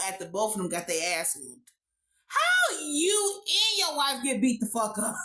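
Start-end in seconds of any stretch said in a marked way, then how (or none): 2.3-5.2 incredulous shout. Real, not acted.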